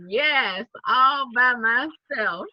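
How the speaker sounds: slow, savoring all by myself; smug delight. Retold or imitated. Riding the bus alone, slow and smug. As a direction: gloat playfully. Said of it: "I was like".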